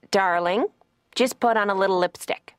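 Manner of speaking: lightly voiced nineteen-fifties mom; mock motherly advice from a fifties babe. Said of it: "she's like a nineteen fifties babe".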